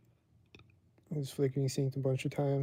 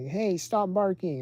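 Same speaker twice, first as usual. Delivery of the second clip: higher, louder, drawn-out mock yell; slow, raised scolding call=; imitated yelling; 6 semitones higher, 6 dB louder, slower than usual. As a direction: mimic an owner hollering at a barking dog. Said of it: "they just keep yelling at it".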